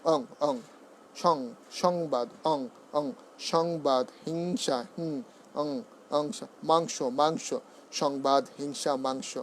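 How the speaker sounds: "অং" and "সং" ending on a clear ng; anusvar as ng. Shown as a demonstration. Teacher drilling anusvar, "অং" pronounced ong. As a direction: sound the ng in "সংবাদ", "হিংসা", "মাংস". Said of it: "অঙ্গের মতো উচ্চারণ হবে".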